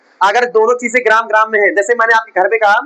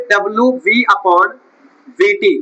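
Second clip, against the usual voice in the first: dictating slowly; slower than usual. Shown as a demonstration. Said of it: "क्या निकालोगे यहाँ पे?".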